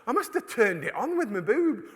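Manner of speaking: high-pitched mock apology to the room; hammed-up embarrassed announcement; imitated apologetic woman. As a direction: call it out in a squeaky put-on voice. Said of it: "and then she goes".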